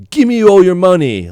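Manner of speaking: joking stick-up demand; mock robber. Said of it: "joking around".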